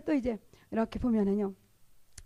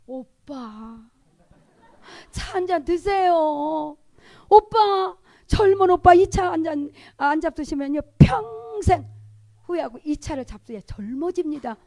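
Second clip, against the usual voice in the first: playful coaxing; 3 semitones higher, 7 dB louder, slower than usual. Acted. Evangelist flattering a gentleman as young oppa, playful coaxing. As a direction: coax with stretched endings, building louder.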